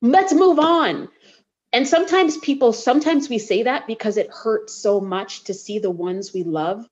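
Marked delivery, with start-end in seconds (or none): 0.0-1.1 mock brisk dismissal. Imagined harsh dismissal quoted.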